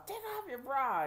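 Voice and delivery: high-pitched barked order; imitated sheriff's holler. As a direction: mimic a mean guard giving orders. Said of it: "they're still screaming and hollering".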